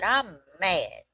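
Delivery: put-on Southern little kid announcing a grievance; imitated Southern child, mildly indignant. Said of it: "just real Southern kid style".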